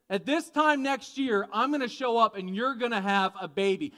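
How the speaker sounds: projected, deliberate announcement; meant to be overheard. Acted. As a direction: announce it for a listener out of sight. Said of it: "He wants her to hear".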